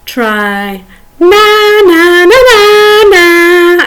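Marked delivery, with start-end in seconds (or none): 1.2-3.9 high loud playground taunt; childish sing-song na na na. Shown as a demonstration. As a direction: tease like a little kid. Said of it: "as childish as you like".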